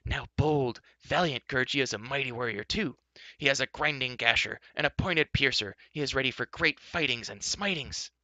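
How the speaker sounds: high, eager creature boasting; boastful Gurgi. Acted. Gurgi boasting to companions, high and eager. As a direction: puff up like a small warrior.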